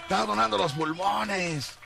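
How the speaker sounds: high calling-out host; hyped fairground barker. Retold or imitated. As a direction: shout to the crowd, high.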